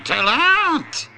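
high, loud growling beast; monster roar. A narrator's reading. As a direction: snarl it as a final verdict. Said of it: "gromde het monster".

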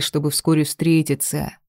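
ordinary delivery, nothing marked

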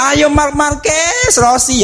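hammed-up fan urging the rider; cheering fan. Imitates racing fan cheering.

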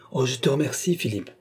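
"Oh, je te remercie, Philippe" with every word given weight; each word accentuated. A narrator's reading. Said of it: "en accentuant chacune de ses paroles". (« Oh, je te remercie, Philippe » en accentuant chaque mot)

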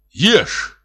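sharp high angry order; a short, angry high command. A narrator's reading. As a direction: snap it at him, fed up. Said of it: "зло сказал он".

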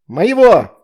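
put-on high loud girl's shout; loud high cry. A narrator's reading. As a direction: yell it out, voice up high. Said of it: "выкрикнула Астрид".

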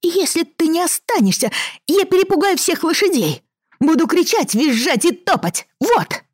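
very high, shrill tantrum threat; shrill child threat. Acted. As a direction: scream the threat like a spoiled kid. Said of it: "использовал первое грозное оружие".

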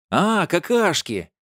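high, slow, loud exclamation; loud dawning realisation; sudden realisation. A narrator's reading. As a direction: draw it out as the penny drops.

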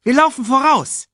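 high, loud cub voice; eager call. A narrator's reading. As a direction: call it out, raring to go. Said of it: "rief Simba".

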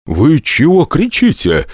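slow, indignant protest. A narrator's reading. Incubus protests at being shouted at, indignant. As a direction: push back, offended. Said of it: "внезапно возмутился он".

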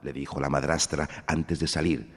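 high, loud insulting orders; wicked stepmother. A narrator's reading. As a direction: bark insults at her. Stepmother and sister insult Cinderella.

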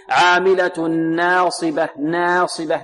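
slow recitation with the aa of ناصبة tilted toward e; wrong imala demo. Shown as a demonstration. Teacher shows students a faulty tilted vowel, wrong imala demo. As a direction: tilt the long alif in ناصبة toward "ee". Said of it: "فيها تقليل أو فيها إمالة".

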